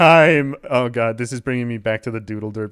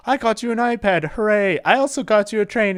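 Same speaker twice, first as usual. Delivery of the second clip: high, louder mock-cheerful Santa; jolly Santa; 11 semitones higher, 5 dB louder than usual. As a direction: hand over gifts in a hammed-up cheery voice. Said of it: "He's like".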